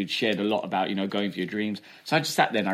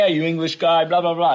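mocking school bully; 6 semitones higher, 7 dB louder than usual. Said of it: "And they're like".

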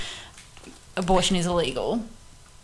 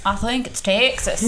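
put-on Texas accent. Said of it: "That was my Texas accent".

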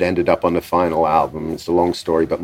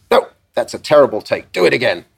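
higher, brusque order; a rock singer; 4 semitones higher than usual. Retold or imitated. Visitor orders a young producer to redo the take, brusque. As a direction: imitate a blunt visitor rejecting the take. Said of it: "And he suddenly goes".

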